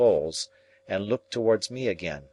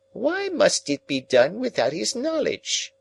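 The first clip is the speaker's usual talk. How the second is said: put-on much higher, searching old woman's voice; sharp old Miss Havisham; 12 semitones higher, 3 dB louder than usual. A narrator's reading. Miss Havisham presses Pip about the secret, high and sharp. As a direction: demand the reason in a high old voice.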